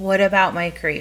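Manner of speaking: ordinary talk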